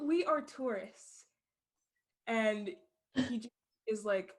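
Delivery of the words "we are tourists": slow, higher, evenly spaced words; a slow machine translator; translation app voice. Acted. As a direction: spell it out like a stiff translation machine. Phone line repeated.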